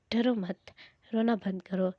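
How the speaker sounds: soft, understated comforting; quiet, lightly acted reassurance; gently reassuring. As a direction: soothe someone who is crying, softly. Guard comforts crying victim.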